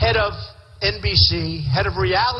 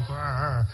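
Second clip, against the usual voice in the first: low, quiet growled "grr"; little throaty grr, played for comedy; imitated grr; 5 semitones lower, 7 dB quieter than usual. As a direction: make a soft, low growling noise. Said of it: "and I'm going".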